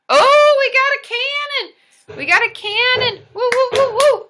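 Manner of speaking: high, loud whooping cheer; real thrilled celebration, shouting high; excited cheering. Real, not acted. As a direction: cheer it out at the top of your voice. Celebrating cannon in live stream.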